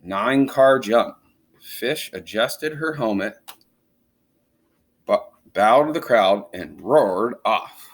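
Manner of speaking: put-on lively read-aloud to children; animated storybook reading; story narration. A narrator's reading. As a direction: read it like a picture book for kids. Reading a picture book aloud.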